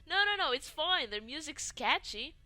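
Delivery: high, loud protest between fits of laughter; getting words out laughing. Acted. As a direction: squeeze the reassurance out past the giggles. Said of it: "I managed to get these words out".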